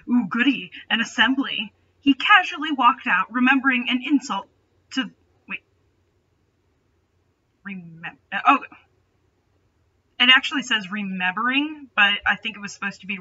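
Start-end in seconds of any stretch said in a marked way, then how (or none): none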